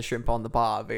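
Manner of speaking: mock Australian accent; Australian catchphrase. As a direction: quote it with Australian vowels. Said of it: "well, they were saying".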